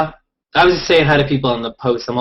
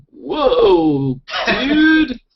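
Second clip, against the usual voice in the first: high, loud surfer-dude Whoa dude; Keanu Reeves impression; 8 semitones higher, 5 dB louder than usual. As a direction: stretch it out like a stoned surfer. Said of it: "Keanu Reeves going".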